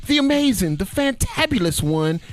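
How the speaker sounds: showy self-introduction in a rising high pitch; voice going up. Real, not acted. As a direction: announce yourself grandly, voice climbing high. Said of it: "How come your voice started going up".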